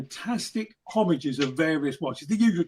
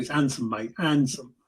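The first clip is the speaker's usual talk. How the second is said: proper Essex handsome, dropped h, lower; Essex accent; 3 semitones lower than usual. Shown as a demonstration. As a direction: Essex handsome, mate, no h sound. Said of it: "I can do it properly".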